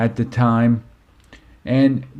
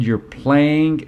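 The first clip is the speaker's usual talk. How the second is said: firm dad; 4 semitones higher than usual. Retold or imitated. Dad overrules pleading daughter.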